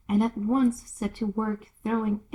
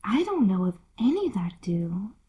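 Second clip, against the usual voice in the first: polite. Acted. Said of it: "Alice said very politely".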